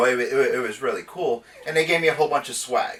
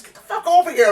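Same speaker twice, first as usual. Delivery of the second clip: mock gruff order; 13 semitones higher than usual. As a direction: yell it as a playful fake threat. Acted grab while retelling.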